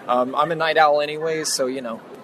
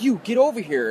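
higher-pitched mock summons; imitated drunk challenger; 8 semitones higher, 3 dB louder than usual. Big buff dude summons him at the bar, mock challenge. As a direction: order someone over, lightly acted. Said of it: "And he's like".

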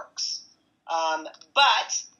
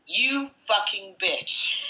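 quoted angry insult; 4 semitones higher, much slower than usual. Retold or imitated. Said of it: "This guy was so angry at me".

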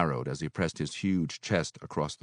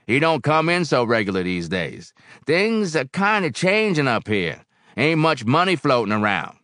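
big-voiced barkeep explaining hard times; weary barkeep Barrel House; 9 semitones higher, 7 dB louder than usual. A narrator's reading. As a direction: confide the hard news in a big, raised voice.

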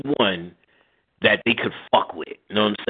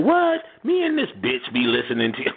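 surprised grandma. Retold or imitated. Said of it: "he's like".

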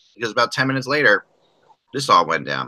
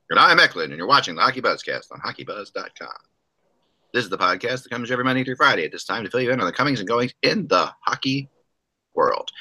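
radio voice. Acted. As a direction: announce it like a radio host. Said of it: "I'm using my best radio voice today".

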